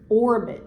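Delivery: "orbit" with the first syllable a little harder; stress on OR in orbit. Shown as a demonstration. Teacher showing a child the stressed syllable, first syllable of "orbit" harder. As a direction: lean on the "or" of "orbit". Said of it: "did I say a little harder".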